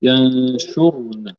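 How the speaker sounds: ينشرن drawn out very slowly; teacher models ينشرن slowly for the student; slow correction. Shown as a demonstration. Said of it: "ينشرون،".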